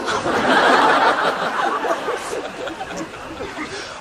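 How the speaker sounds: high airy burst of laughter; high giggling laugh. Real, not acted. Laughs at own joke.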